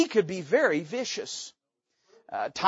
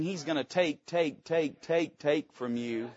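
softer with each "take", slowing; hushed repetition; 5 semitones lower, 8 dB quieter than usual. Acted. Preacher warns congregation of Saul, fading to a hush. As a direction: let "take" sink lower and slower each time. Saul taking, repeated words.

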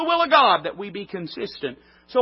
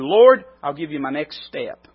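a louder, earnest offering to the Lord; earnest prayer; 3 semitones lower, 6 dB louder than usual. Retold or imitated. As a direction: offer each step aloud to God.

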